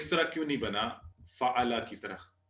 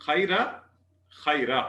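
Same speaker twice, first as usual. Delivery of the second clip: slow Arabic drill; slower than usual. Shown as a demonstration. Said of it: "आप खैर को apply करते हैं तो देखते हैं".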